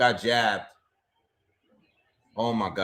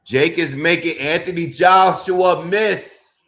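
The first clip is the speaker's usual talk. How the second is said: laughing disbelief; 5 semitones higher, 7 dB louder than usual. Real, not acted. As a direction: laugh it out at the absurd fight. Mocking fighter while watching live.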